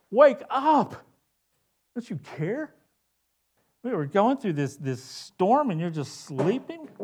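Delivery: high, loud panicked shout; frightened men yelling over a storm; panicked disciples. Acted. Disciples shouting at sleeping Jesus, panicked. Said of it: "they say the same thing to Jesus".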